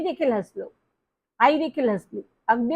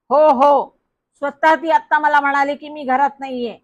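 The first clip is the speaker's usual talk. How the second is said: insisting; 3 semitones higher, 6 dB louder than usual. Acted. Boy insisting loudly on phone.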